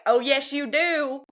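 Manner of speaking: slow, drawn-out mock insistence; a hint of small-town busybodies; imitating the crowd. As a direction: stretch it out like the whole room is in on it. Post office crowd insisting.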